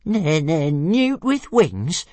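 high, slow stuttering dragon voice; squeaky offended stammer; stammering little dragon. A narrator's reading. Small dragon repeating the insult, high and slow. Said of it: "repeated Toothless".

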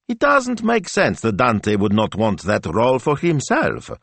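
high, slow puzzling-out; puzzled young assistant. Acted. Assistant puzzles over the actor's absence, bewildered. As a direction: reason it through in bewilderment.

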